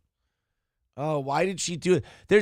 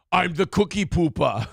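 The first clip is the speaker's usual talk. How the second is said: laughing Arnold riff. Retold or imitated. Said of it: "bringing Arnold Schwarzenegger in it".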